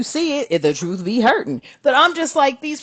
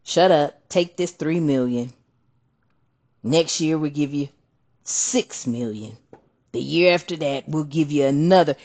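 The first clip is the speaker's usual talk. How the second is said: politician bribe; 7 semitones lower, 5 dB quieter than usual. Retold or imitated. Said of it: "that hush money".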